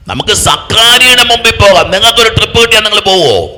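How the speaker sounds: high, loud preaching; loud challenge. Acted. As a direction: throw it at the congregation as a challenge. Preacher challenges congregation loudly.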